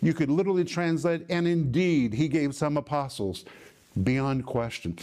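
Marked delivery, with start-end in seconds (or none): 1.3-3.5 "indeed" punched like an exclamation mark; emphatic INDEED. Shown as a demonstration. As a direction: hit "indeed" hard, then state the rest. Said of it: "It is like an exclamatory mark".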